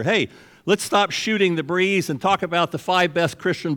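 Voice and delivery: imitating a woman addressing the room; loud call-out. Woman calling out to a church fellowship meeting, loud call-out. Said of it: "says loud enough for everybody to hear".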